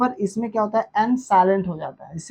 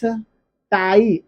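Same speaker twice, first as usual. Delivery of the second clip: slow phonics demo; much slower than usual. Shown as a demonstration. Teacher sounding out a word for students, very slowly. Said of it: "देखिए यहाँ पर आइस आया".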